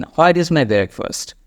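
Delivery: slow practice line. Shown as a demonstration. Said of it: "নিজে একবার ওটা ইংলিশে বলে নেন".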